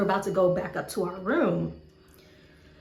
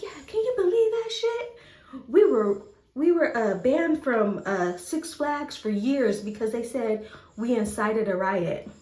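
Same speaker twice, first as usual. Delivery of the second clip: a hint of a singer; 3 semitones higher than usual. A singer voiced laughing it off.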